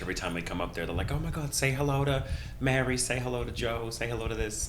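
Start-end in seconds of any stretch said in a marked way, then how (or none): 1.1-4.7 put-on terrible Boston accent. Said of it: "I'm doing a terrible version of the accent".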